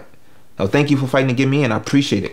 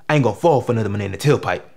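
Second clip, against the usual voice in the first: low, quick line with more bass; 4 semitones lower, faster than usual. Acted. Actor correcting his audition line, bass in voice. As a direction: put some bass behind it and push it out. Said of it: "say it with some bass in your voice".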